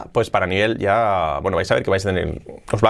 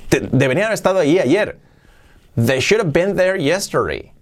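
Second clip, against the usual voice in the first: higher, protesting and incredulous; acted disbelief; 6 semitones higher than usual. Teacher plays another context, incredulous protest. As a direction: act indignant, swinging the pitch up. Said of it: "Podéis darle distintas entonaciones".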